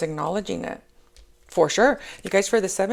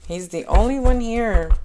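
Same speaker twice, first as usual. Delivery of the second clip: excited high; 6 semitones higher, 4 dB louder than usual. Real, not acted. Asking the angels excitedly.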